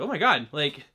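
half-laughing, half-stunned at the gore; laughing amazement. Retold or imitated. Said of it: "I was like".

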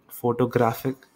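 फोटोग्राफिक as fo-to-GRAF-ik; stress on third syllable. Shown as a demonstration. Teacher giving the third example, stress on GRAF. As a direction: put the weight on GRAF in फोटोग्राफिक. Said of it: "ग्राफिक में हमने ज़्यादा stress दिया".

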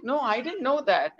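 laughing through the words in surprise; a laugh breaking in as she says it. Retold or imitated. Surprised at new fact.

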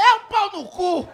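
loud, high, slow comic shout; hammed-up emphatic outburst; exasperated blunt verdict. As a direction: blurt the insult at full volume. Acted blunt answer to fan.

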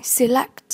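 "Select" stressed on LECT; light se, weighted LECT in "Select"; stress on second syllable. Shown as a demonstration. Teacher modelling vocabulary for learners, "Select" stressed on LECT. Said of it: "nhấn âm hai".

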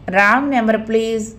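put-on a touch of an American accent; slight American accent. Smitha fobs off the caller with a slight American accent. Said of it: "కాస్త American యాసలో".

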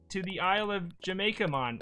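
put-on light Jamaican accent; a hint of a Jamaican accent. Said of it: "In Jamaican accent".

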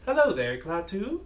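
lightly voiced monotone translator. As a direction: read it like a flat machine translator. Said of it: "like, a monotone voice".

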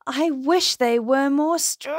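tetchy monster. A narrator's reading. Voices the tetchy monster's complaint.

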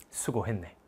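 soft, low and unbothered; calm dismissive farewell. Retold or imitated. Defiant prisoner softly tells judge well done. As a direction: brush off the judge with quiet scorn. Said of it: "박열 뭐라 그랬게?".

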